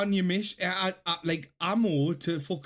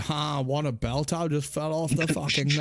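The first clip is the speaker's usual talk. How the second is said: mock Scottish shrug-off; 5 semitones lower than usual. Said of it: "I'll be like".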